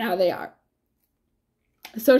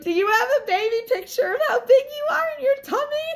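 high, fast, crying voice; retelling her own tearful question, crying and high; tearful quote; faster than usual. Retold or imitated. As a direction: squeak it out through tears, much higher. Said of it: "I was crying because I was like".

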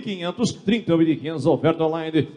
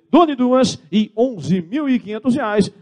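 auctioneer call; 6 semitones higher, slower than usual. Real, not acted. Auctioneer calling going twice.

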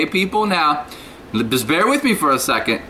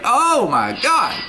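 high, slow, drawn-out complaint about the heat; mock exasperation; 8 semitones higher, much slower than usual. To viewers, recalling the hot morning, mock exasperated wail. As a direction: stretch it out like you're melting. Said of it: "I was like".

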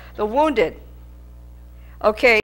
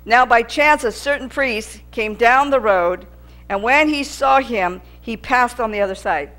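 scripture reading. Acted. Reads scripture aloud.

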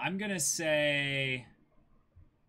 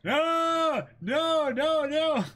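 loud protest; 8 dB louder, much slower than usual. Real, not acted. Protesting spider fruit idea.

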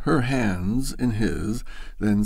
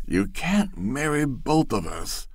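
almost shouted; 5 semitones higher than usual. A narrator's reading. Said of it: "he almost shouted".

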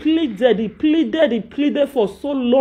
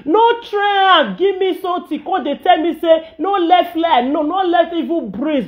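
heated scolding; 6 semitones higher than usual. Real, not acted. Scolding loudly.

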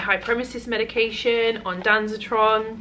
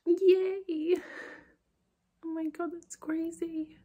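excited; 10 semitones higher, 5 dB quieter, slower than usual. Real, not acted. Mum excited to the children.

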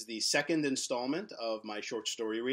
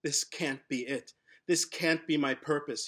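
building protest; 4 dB louder than usual. Acted. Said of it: "he screams".

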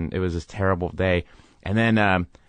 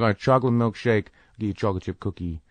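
sweet apology; faster than usual. Retold or imitated. Actor apologizing, sweetly coaxing driver.

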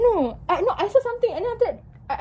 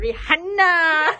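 imitating co-host; 3 semitones higher, 3 dB louder, much slower than usual. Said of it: "she be like".

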